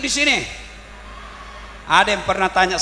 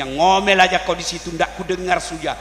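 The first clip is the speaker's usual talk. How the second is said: taunting down the well, slowing and swelling on the second Ngomel; a touch of smug revenge; mocking husband; 2 semitones lower than usual. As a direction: gloat at the nagging wife below. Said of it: "Kata suaminya".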